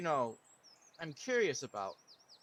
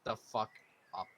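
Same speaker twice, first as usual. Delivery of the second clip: lower, softer menacing order; low threat; 6 semitones lower, 6 dB quieter than usual. Acted. Player orders the bowman to shut up. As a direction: hush him with a threat. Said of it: "I look at him and I say".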